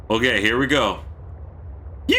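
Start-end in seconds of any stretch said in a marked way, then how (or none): 2.1-2.2 long, drawn-out southern yeehaw; high, stretched rodeo holler with a southern accent. Shown as a demonstration. Streamer performing a yeehaw a viewer requested, long southern holler. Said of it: "say a really long yeehaw in a southern accent".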